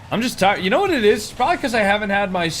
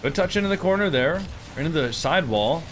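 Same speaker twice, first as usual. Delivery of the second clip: play-by-play. Acted. Live Rocket League commentary.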